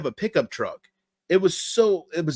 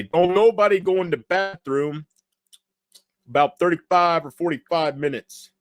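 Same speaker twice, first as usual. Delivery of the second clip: light comic impression, higher pitch; John Witherspoon; 4 semitones higher than usual. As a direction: quote it like the comedian, slightly raised. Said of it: "I didn't hear John Witherspoon say".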